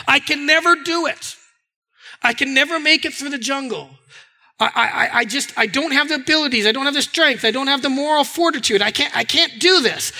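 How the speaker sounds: a touch of defeated helplessness; acted despair. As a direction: give up, insisting it is impossible. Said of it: "The opposite is despair".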